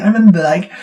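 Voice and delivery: normal talking voice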